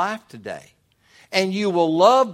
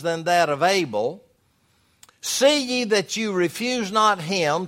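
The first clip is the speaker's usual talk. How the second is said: raised, declaiming Bible reading; emphatic scripture reading; 4 semitones higher, 4 dB louder than usual. Acted. Preacher reads Hebrews to the church, emphatic scripture reading. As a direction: read scripture out firmly to the congregation.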